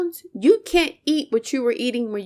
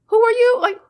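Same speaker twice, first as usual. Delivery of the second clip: much higher and louder, furious challenge; angry shout; 11 semitones higher, 8 dB louder than usual. Real, not acted. Demanding of an imagined man who he is, shouting. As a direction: fling the question like an accusation.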